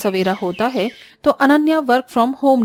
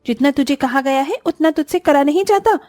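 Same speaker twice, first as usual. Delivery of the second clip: sharp, higher taunting scold; scolding sister-in-law; 4 semitones higher, 3 dB louder than usual. Acted. Sister-in-law taunting Disha, sharp scolding. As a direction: belittle her with every word.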